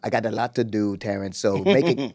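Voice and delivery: slow mock-British accent; Idris Elba. Busy actor talking to Terrence, slow mock British accent. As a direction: draw it out in an amateur British accent. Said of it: "what's going on with your Idris Elba".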